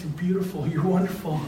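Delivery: gentle and heartfelt to the room; sincere to the audience. Real, not acted. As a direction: say it softly, meaning it. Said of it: "And I'm telling you guys".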